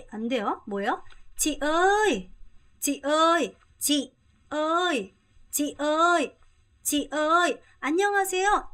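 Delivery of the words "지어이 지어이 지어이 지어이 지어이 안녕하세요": excited call. Acted. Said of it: "민기라는 친구가".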